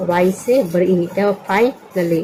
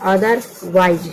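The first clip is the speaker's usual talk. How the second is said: slow spelling-out read; much slower than usual. Shown as a demonstration. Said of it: "डब्ल्यू आई एस ई".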